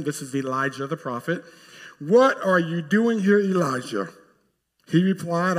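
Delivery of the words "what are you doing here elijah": booming voice of God. Acted. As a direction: call out to the hiding prophet. God's first question to Elijah.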